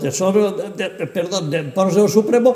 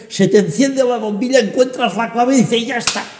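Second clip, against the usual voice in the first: higher, animated build to a breakthrough; excited discovery; 5 semitones higher than usual. Acted. Translator acting out cracking an old text, excited. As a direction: lift the pitch as the answer clicks. Acts out moment of solving it.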